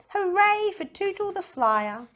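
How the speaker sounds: high, loud drawn-out cheer; a village chanting hooray; slow cheer. A narrator's reading. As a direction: celebrate the hero.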